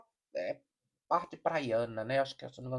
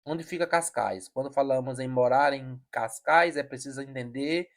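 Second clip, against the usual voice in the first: louder, projected informational read; reading an article aloud; 2 semitones higher, 7 dB louder than usual. Real, not acted. Commentator reading out what Cascais is, projected article read. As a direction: read it out like an encyclopedia entry.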